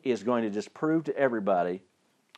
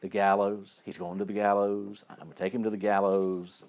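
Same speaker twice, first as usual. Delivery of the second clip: galled; 3 semitones lower, 4 dB quieter than usual. Acted. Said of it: "It probably just really galled him".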